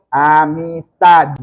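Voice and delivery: AMISTAD slowly, holding a humming voiced D at the end; final D voiced. Shown as a demonstration. Teacher lets student feel the final D, voiced and drawn out. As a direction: draw out Amistad till the last D vibrates. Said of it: "pon tu índice en mi, aquí".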